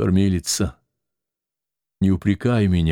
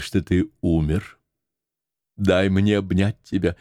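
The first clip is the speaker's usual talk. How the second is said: ordinary delivery, nothing marked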